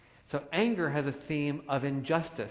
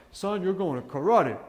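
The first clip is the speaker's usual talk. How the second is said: a hint of a tough Bronx dad, louder; tough father; 3 semitones higher, 5 dB louder than usual. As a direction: bark it lightly like a strict father. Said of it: "my father said".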